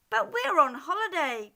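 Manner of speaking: quick high protest. Acted. Wolves protesting to the squirrels, fast and high. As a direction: whine it fast like indignant wolves. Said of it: "protested the wolves".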